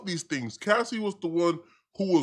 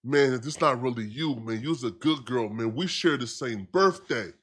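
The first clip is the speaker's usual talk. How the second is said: tender plea; 6 semitones lower, 4 dB quieter than usual. Retold or imitated. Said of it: "He tender".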